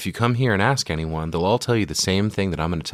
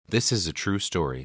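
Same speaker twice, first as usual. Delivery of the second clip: put-on little kid voice; 4 dB quieter than usual. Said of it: "It's like your voice got smaller".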